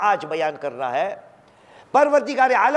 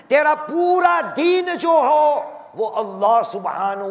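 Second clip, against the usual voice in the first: preacher's shout; 5 semitones higher than usual. Real, not acted. Preacher exhorting congregation.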